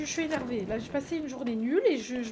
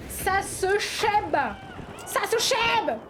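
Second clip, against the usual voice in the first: excited squeal; 6 semitones higher, much slower than usual. Real, not acted. Excited squeal over crush news.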